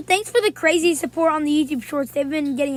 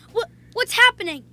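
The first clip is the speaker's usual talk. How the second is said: startled, high and louder; baffled by your own character; confused; 6 semitones higher, 6 dB louder than usual. Retold or imitated. Confused at buggy controller.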